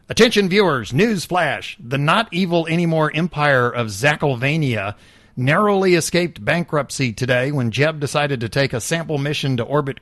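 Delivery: a lightly voiced breathless announcer; infomercial voice. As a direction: pitch it like a TV news flash. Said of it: "the infomercial voice".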